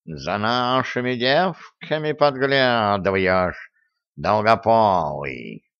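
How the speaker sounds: slow, menacing villain hiss; sinister hiss. Acted. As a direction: hiss it like a mustache twirling villain. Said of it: "зловеще прошипел Васька".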